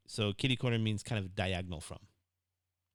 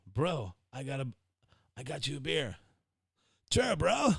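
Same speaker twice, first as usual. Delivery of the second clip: put-on New Zealand accent; 5 semitones higher, 4 dB louder than usual. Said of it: "here we go".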